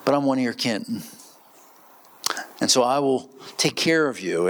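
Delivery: lightly voiced mob boss promising favors; Godfather imitation. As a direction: offer protection like a godfather. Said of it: "if I could do a Godfather imitation".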